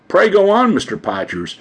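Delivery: gratified, encouraging lift on the first words; pleased. A narrator's reading. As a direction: urge him on with pleasure, voice lifting first. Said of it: "looking quite pleased".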